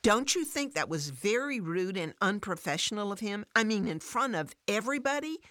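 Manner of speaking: pleading for agreement, exasperated; frustrated. Acted. Fran complains to Alice about her boss, frustrated. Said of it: "Fran says in frustration".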